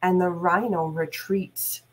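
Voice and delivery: put-on reading a story aloud to kids; measured, lively storytime reading; story narration. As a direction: tell it like a read-aloud for a class. Teacher reads animal story aloud.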